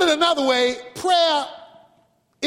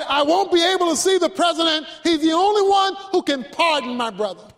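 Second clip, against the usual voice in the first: desperate plea; 3 semitones higher than usual. Acted. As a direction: voice a mild desperate outburst. Desperate man tells his plea.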